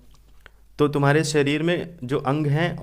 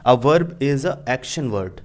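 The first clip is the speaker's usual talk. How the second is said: slow recitation; much slower than usual. Shown as a demonstration. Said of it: "English में एक definition है".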